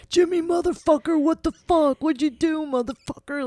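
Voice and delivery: high, loud mock gamer rage; imitating kids yelling. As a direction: shout it like a kid losing a game. Kids swearing at video games.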